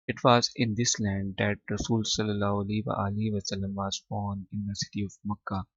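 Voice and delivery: very slow, each English word set apart for students; slow dictation reading. Shown as a demonstration. Teacher to students, slow careful reading aloud. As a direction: read Arabia is a land of charm and beauty slowly for the class. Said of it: "teacher reads English text slowly".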